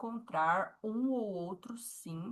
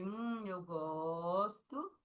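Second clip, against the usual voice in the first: slow, relishing "hum, eu gosto"; mmm, I like it; savoring; 4 dB quieter, much slower than usual. Shown as a demonstration. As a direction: savor it like a treat. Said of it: "aquela carinha de".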